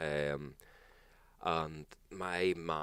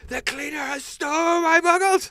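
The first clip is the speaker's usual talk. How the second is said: high, loud, slow mock outrage; shrieking mock outrage over stolen crisps; outraged friend; 9 dB louder than usual. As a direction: wail it like a scandal. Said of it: "She's like".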